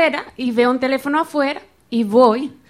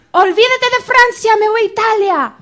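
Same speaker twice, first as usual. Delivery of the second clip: higher, louder retold angry declaration; angry outburst; 9 semitones higher, 5 dB louder than usual. Student shoved off a bench in Nice, storming off angrily. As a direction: huff it out like you're fed up and leaving. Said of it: "yo me enojé tanto que yo dije".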